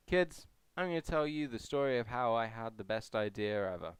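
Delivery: lightly voiced dad telling his kids a story; How I Met Your Mother narrator. Vlogger parodying the sitcom's opening to his kids, lightly voiced. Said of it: "I need to stop with the references".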